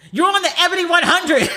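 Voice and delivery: high, laughing through it; laughing quote. Retold or imitated. Boyfriend telling her about the Ebony list, laughing. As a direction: say it while cracking up. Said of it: "Him was like".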